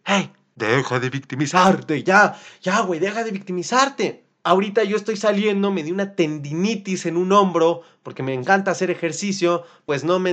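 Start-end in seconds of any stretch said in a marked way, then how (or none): 0.0-4.2 a hint of a stern inner voice; lightly voiced self reprimand; self-scolding. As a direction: snap yourself out of it. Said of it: "yo mismo me digo".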